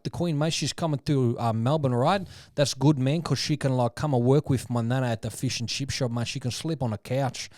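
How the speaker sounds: lightly voiced cheeky wog-accented prank caller; a hint of a brash Melbourne larrikin on the phone; prank caller Guido Hatzi's. Radio prankster calling Buckingham Palace, lightly voiced cheeky caller. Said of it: "prank phone call character called Guido Hatzi's".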